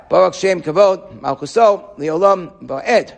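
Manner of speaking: slow, solemn proclamation; proclaimed out loud. Shown as a demonstration. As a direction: declare it slowly and clearly. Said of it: "we can proclaim out loud".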